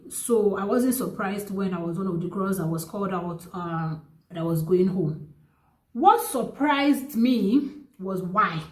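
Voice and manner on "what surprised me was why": slow, spaced-out words; slow reveal. Real, not acted. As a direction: draw out the reveal. Builds suspense before revealing reason.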